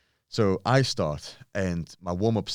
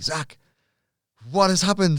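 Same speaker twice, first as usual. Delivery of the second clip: higher, louder alarmed question; alarmed gym owner; 11 semitones higher, 7 dB louder than usual. Retold or imitated. Gym owner on the phone, alarmed and higher. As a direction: voice a panicked gym owner calling. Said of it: "He's like".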